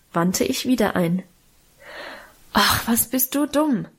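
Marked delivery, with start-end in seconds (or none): 2.5-3.9 mildly exasperated exclamation; annoyed. A narrator's reading. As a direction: scold with impatient annoyance. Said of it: "rief er ärgerlich". (ärgerlich gerufen)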